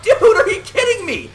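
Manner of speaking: high, shouted disbelief; shocked disbelief. Retold or imitated. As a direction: yell it like you can't believe the kick-out. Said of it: "I'm like".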